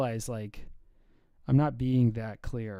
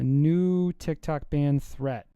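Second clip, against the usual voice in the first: news read; 7 dB louder than usual. Real, not acted. Reads a news item aloud.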